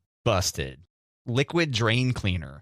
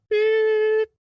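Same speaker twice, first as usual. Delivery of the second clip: mock beep; 5 dB louder than usual. Joking about censored songs.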